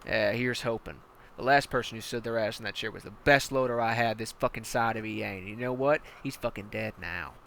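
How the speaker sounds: hard-nosed commander barking orders at a recruit; menacing armored battalion commander; tank commander. Acted. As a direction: lean in like a brutal drill sergeant.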